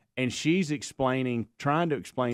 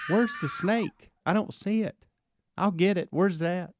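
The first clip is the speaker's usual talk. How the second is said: mock challenge; 7 semitones higher than usual. Charging in on attack mode.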